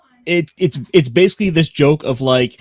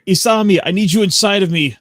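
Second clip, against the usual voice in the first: raised, mock dramatic plea; mock scream; 8 semitones higher, 4 dB louder than usual. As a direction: yell it like an anime hero. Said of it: "that's what he screams".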